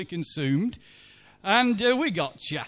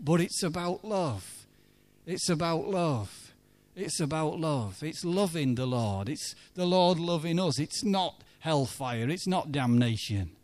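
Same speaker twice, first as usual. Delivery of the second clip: gentle insistence; 2 semitones lower, 4 dB quieter than usual. Retold or imitated. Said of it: "kept saying over and over again".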